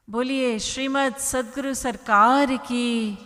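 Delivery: loud rallying cry for the crowd to answer; devotional call-out. Real, not acted. Preacher calls out for response.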